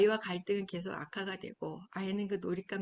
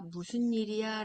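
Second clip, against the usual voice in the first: 부드러운 질문; 2 semitones higher, 4 dB louder than usual. Shown as a demonstration. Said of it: "라고 질문하는 거예요".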